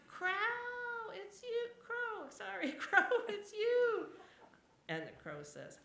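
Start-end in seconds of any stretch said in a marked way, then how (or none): 0.1-4.1 high, loud laughing delight; excited. Acted. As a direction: greet an old friend gleefully. Excited greeting to Crow.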